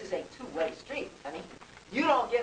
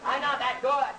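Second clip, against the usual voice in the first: laughing; 4 dB louder than usual. Real, not acted. Laughing at own boast.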